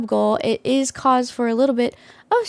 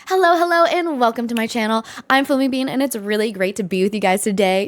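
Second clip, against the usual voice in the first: YouTube intro voice. Shown as a demonstration. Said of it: "I'll go".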